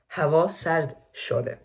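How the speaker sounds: "Hava sard shode" said slowly with a gentle fall; slow Persian statement tune on "Hava sard shode"; soft falling intonation. Shown as a demonstration. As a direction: let "Hava sard shode" drop softly at the end. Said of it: "soft falling intonation in statements".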